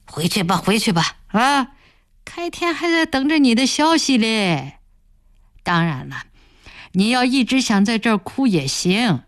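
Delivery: lightly voiced boss, smooth threat; threatening village boss. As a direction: push her back with a cool veiled threat. Boss threatens her reputation. (软中带硬的威胁口吻)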